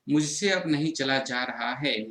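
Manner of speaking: slow, weary, dragging each word; too worn out to walk another step; tired. Shown as a demonstration. Teacher acts out a tired student, slow and weary. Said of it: "ये अपना भाव प्रकट कर रहे हैं".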